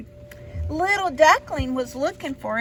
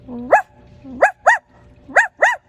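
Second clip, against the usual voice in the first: loud barks rising high; the dog barking at the duckling; 11 semitones higher, 7 dB louder than usual. Acted. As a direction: bark like a little dog. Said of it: "said the dog".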